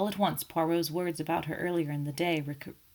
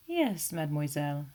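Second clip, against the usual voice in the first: gently; 2 semitones lower than usual. Acted. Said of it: "said Poirot gently".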